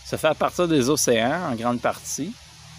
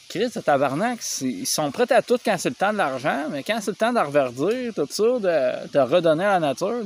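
higher-pitched, indignant outburst; exasperated rant; 6 semitones higher than usual. Real, not acted. Vlogger ranting that they only act for money, exasperated. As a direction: vent your frustration, pitch riding high. Swearing rant about greed over nature.

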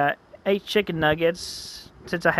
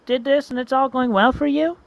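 excited friend; 5 semitones higher than usual. Acted. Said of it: "Roshu comes in. She's like".

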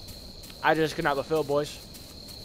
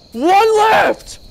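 loud high cheer; excited shout; 12 semitones higher, 9 dB louder than usual. Real, not acted. One paper left, loud excited cheer. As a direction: whoop the news.

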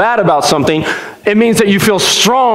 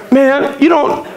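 imitated cussing boy; 8 semitones higher than usual. Boy cussing at his mom in the freezer section, imitated angry griping. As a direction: whine angrily at mom, mock swearing. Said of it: "is cussing at his mom".

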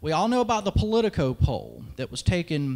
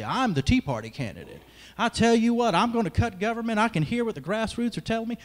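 mock chest-beating candidate; 5 semitones higher than usual. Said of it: "beat their chest and say".

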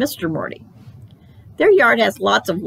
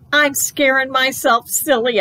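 put-on spooked child; 6 semitones higher, slower than usual. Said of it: "I said".

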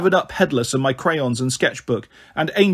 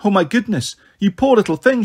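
a stranger recoiling at the wound; shocked kind lady; 5 semitones higher than usual. Acted. Lady sees injured child.

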